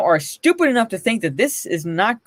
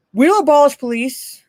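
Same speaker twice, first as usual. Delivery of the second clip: mocking; 6 semitones higher, 4 dB louder than usual. Mocking the actress's tweet.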